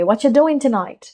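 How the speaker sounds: accented, linked "whatcha doing tonight"; casual connected-speech accent; Netflix-style accent. Shown as a demonstration. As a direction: copy the casual English accent of a series character. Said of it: "हम भी वैसे ही कहेंगे".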